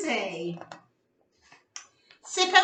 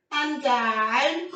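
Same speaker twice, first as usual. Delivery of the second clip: dramatic gasp; 3 dB louder than usual. Acted. Dramatic fall in story.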